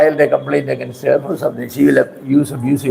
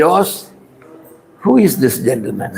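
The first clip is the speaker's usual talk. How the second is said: measured, courteous question, dropping lower; polite asking; 4 semitones lower than usual. Shown as a demonstration. Pastor teaches the woman to question Jose, politely. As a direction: model how to ask respectfully. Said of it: "Ask like that".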